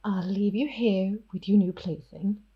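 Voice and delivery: cool, gathered vampire whisper; smooth over the shock, softly dismissive; composed whispering Ophelia. Acted. Ophelia regains composure and leaves Aidan, whispering coolly. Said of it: "she gathers herself and she's like".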